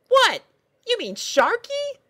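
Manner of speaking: put-on a chirpy girl pony puzzled by her steed; squeaky cheerful pony; pony princess voice. Pony character giggly.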